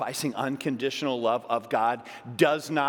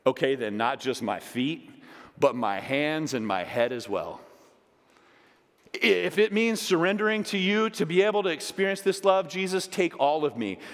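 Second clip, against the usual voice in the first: higher and louder, building into fervent prayer; impassioned plea; 7 semitones higher, 5 dB louder than usual. Pretend. Peter begging Jesus to wash all of him, fervent. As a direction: pour it out, begging to be washed clean. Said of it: "It says, Peter replied".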